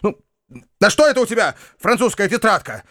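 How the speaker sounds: high, angry bark at the servant; furious shout. A narrator's reading. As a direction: rage at the French notebook. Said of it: "с яростью закричал он". (гневный высокий окрик)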